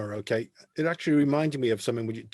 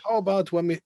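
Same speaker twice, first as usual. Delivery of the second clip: higher, lightly imitated boss's pitch; Sam Hammam; 5 semitones higher, 3 dB louder than usual. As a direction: pitch an idea as the club boss. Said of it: "not gonna do the accent".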